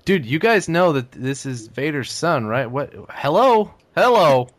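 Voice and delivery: hammed-up frustrated Chewbacca yelling; mock Chewie rant. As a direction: shout for attention like no one hears you. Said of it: "the entire time he's like".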